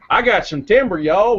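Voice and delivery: folksy Texas joke voice. Pretend. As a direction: play up a Texan twang. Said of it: "here in Texas that was called Timber Y'all".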